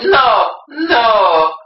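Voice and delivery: hammed-up, Mario-like accented cry; high, loud cry in a bad accent; badly faked accent, cartoonish protest; horrible mock accent. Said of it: "It's a horrible accent".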